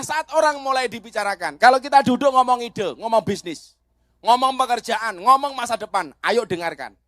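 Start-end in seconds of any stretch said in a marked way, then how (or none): none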